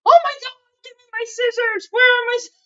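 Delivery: high-pitched frantic burst; retold panic. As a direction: scramble for the scissors like they vanished. Panicking over missing scissors.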